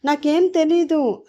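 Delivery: high, hammed-up whiny pleading; fake crying. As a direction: put on a false tearful act to win the son over. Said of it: "ఏడుస్తున్నట్లు నటిస్తూ ఉంటాడు".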